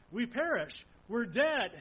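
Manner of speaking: loud, pleading cry of fear; desperate plea. Acted. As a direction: plead as if drowning. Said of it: "They admit their desperation".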